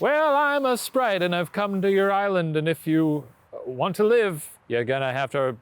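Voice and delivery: half-hearted sprite challenge. Acted. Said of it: "your impression of a sprite".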